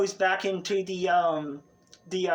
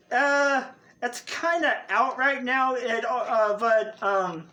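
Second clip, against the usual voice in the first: bartender; 5 semitones higher than usual. Acted. Bartender voice Abby.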